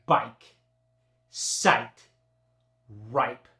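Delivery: "bike" with a hard long I, loud. Shown as a demonstration. Teacher demos the hard long I, loud. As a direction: really drive the I in "bike". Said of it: "drive into that long I".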